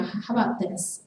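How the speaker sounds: slow, gentle offering; gentler suggestion. Acted. God nudging someone who faces a decision, gently suggesting. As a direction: float the idea gently, unhurried. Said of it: "it's a little more gentler".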